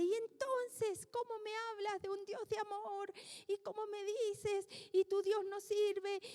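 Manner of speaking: grieving wife lightly imitated, reproaching the pastor; imitating angry widow. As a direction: mildly voice her bitter accusation. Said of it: "muy, muy enojada, la señora me dice".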